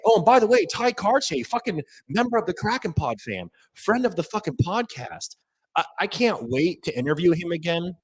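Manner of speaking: thrilled fan shout-out; real excited shout-out. Real, not acted. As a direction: gush about him, too excited to hold it in. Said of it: "I am so fucking jacked up right now".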